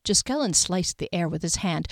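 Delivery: ordinary delivery, nothing marked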